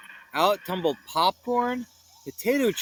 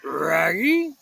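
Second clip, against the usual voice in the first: shout; 5 dB louder than usual. Acted. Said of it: "shouted Scooby".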